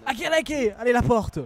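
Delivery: a playful fake African accent, urging the team on; mock African accent. Streamer cheering his FIFA team in a mock African accent. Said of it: "J'ai pris un accent africain".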